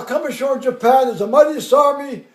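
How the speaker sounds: loud oratory to assembled troops; colonel's speech. Retold or imitated. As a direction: imitate a commander addressing his army. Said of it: "the colonel's there".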